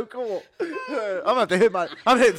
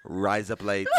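laughing through it; 13 semitones lower, 5 dB quieter, slower than usual. Shown as a demonstration.

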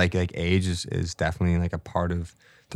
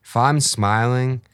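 slow savoring; slower than usual. Real, not acted. Savoring life's good moments.

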